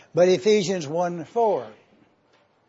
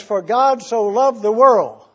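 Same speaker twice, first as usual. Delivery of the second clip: louder, ringing out the verse; emphatic scripture quote; 7 dB louder than usual. Acted. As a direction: proclaim the verse to the congregation.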